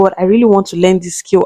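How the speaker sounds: usual speaking voice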